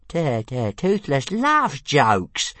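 high, slow stuttering glee; light up at the promise; squeaky drawn-out delight; delighted dragon. Acted. Dragon delighted by joke offer.

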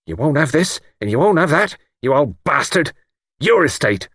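high, tipsy taunting of the boss; mock the master with loosened tongue; insolent outburst. A narrator's reading. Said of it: "His manner changed".

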